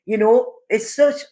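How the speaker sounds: muffled by a hand over the mouth. Real, not acted. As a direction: talk through fingers at the lips. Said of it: "I've got my hand in my mouth there".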